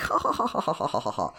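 mock schoolgirl laugh; squeaky fake laugh. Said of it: "very squeaky and just like".

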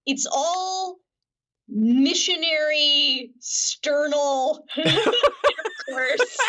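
high, drawn-out words breaking into laughter; cracking up. Real, not acted. Doctor describing an absurd film scene to the host, cracking up. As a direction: struggle to get it out through laughter.

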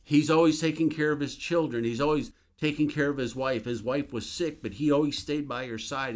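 high, loud, desperate begging; retold anguished plea, rising loud then easing; pleading shout. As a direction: cry out to God, pleading for the man you love. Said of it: "I began to shout to God".

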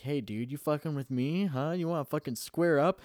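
retold cocky challenge, pitch climbing; mock tough guy. Talking to himself in a mirror, mock tough. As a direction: play-act squaring up to someone. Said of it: "talking in a mirror".

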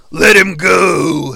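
slow, drawn-out impersonated order; hammed-up, elongated command; mock wrestler voice. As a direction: stretch the words out in a put-on wrestler voice. Voices Triple H's order.

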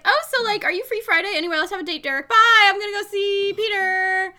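high, bright mock valley girl; airy valley girl. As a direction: toss it off like a flighty teen. Retelling Emma's flighty talk.

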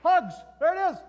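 loud high excited calls; excited cheering. Acted. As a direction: cheer it like a touchdown. Mock football play.

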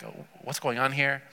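hushed, low-key mock bewilderment; shocked bewilderment. Woman startled that a Jewish man addresses her, quietly bewildered. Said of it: "she's in shock".

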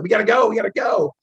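loud, high urging to move; urgent shout. Retold or imitated. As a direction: push them out the door, shouting. Urging ambassador under mortar fire.

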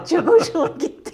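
high, laughing through the words. Real, not acted. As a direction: still laughing as she speaks. Laughing at a funny tweet.

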